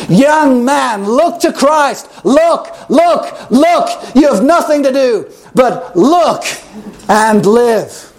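high, ringing revival shout; shouting preacher. Retold or imitated. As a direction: call out to the young man from the pulpit. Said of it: "he shouted as only a primitive Methodist could do".

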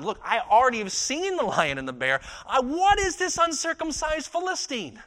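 loud, high indignant challenge; acted bold certainty, pitch soaring; defiant confidence. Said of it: "He had confidence".

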